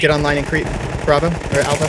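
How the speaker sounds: loud battlefield command; shouted order. Real, not acted. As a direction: call the order over gunfire. Team leader orders in firefight.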